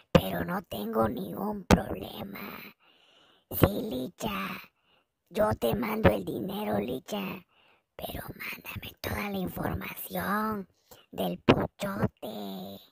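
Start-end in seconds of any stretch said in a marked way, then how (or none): 0.1-2.4 thin voiceless whisper; fake whisper. To Licha, insisting in a faked whisper. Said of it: "Estoy afónica". 6.8-12.8 soft voiceless whisper; fake whisper. To Licha, asking for information in a faked whisper. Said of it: "Estoy afónica".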